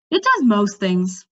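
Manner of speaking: slow, distracted reply; absently. Mendembar answers Cimmerian while focused on the sink, absent. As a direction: mind on the task, half answering. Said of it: "said absently".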